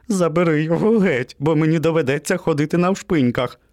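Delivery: high-pitched panicky begging; frightened plea. A narrator's reading. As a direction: beg a friend, high and scared. Frightened puppy begs for removal.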